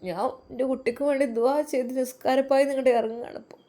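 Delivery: a hint of a worried, loving mother; lightly voiced tender mother. Mother tells her son about her prayers and lonely meals, lightly acted tenderness. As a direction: lightly play a mother reassuring her child.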